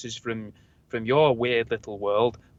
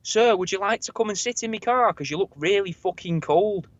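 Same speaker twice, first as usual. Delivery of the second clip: repeated offer; 5 semitones higher than usual. Retold or imitated. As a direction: say it again more clearly for him. Repeating the offer after pardon.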